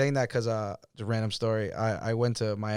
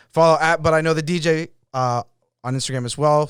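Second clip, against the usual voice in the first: outro plug; 5 semitones higher, 9 dB louder than usual. Real, not acted. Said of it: "follow him at I Am Boston".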